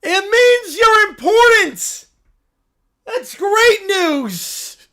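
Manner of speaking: high, loud, slow cartoon bear voice; a cub thrilled by the news; excited little bear. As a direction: squeal it like an overjoyed cub. Bear character shouting joyfully.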